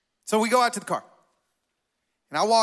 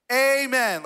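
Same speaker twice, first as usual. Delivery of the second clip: mock prayer ending; 3 semitones higher, 3 dB louder than usual. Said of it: "maybe you have to say amen for God to hear you".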